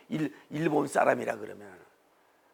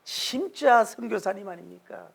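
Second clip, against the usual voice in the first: ordinary delivery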